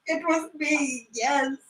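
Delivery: soft, slow and broken; a quiet, ashamed confession; hushed admission. Acted. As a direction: let it fall to almost nothing.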